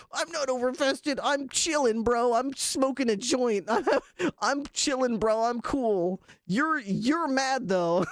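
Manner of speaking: agudo y relajado de fumado; chill stoner. Retold or imitated. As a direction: imita a un tipo que se hace el tranquilo. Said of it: "He was like".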